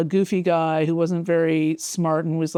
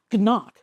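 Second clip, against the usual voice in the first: comic-book punch noise, voiced higher; imitated punch sound; 4 semitones higher than usual. Reading out the comic's sound effects, mock punch noise. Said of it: "That's the sound that a punch makes".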